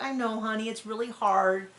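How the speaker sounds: put-on soft, gentle comforting of a child; soothing parent. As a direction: reassure a sad little boy tenderly. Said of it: "and I'm like".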